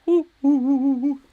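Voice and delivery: high, loud rising oohs; excited oohs. Real, not acted. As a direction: gasp at a near chance. Near miss excitement.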